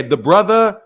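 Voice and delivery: "the brother" drawn out slowly, in imitation; mocking "the brother". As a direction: slowly mimic his "the brother". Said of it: "you sound like a white dude".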